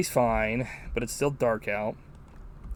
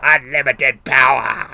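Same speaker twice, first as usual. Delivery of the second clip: horrified villainess; 2 semitones higher, 14 dB louder, slower than usual. Retold or imitated. Sorceress fooled by Willow's trick, hammed-up outraged cry. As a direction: bellow it like a shocked sorceress, slowing on the second line. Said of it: "she's fucking horrified".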